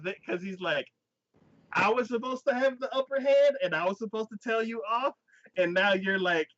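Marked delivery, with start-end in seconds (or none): 1.7-6.5 high-pitched whiny sulk, retold; mock petulant protest; pouty. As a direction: act out a wounded complaint, voice pushed up. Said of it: "he starts getting pouty".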